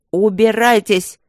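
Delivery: slow, loud angry bark. A narrator's reading. Max loses his temper at the princess, loud bark. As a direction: throw her out with a roar. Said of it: "рявкнул Макс".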